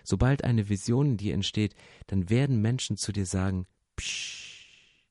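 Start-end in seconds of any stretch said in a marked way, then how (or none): 4.0-5.0 soft, drawn-out shush; hushing. Acted. People silence someone with a vision, soft hushing. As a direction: let out a long "psch".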